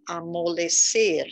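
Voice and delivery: usual speaking voice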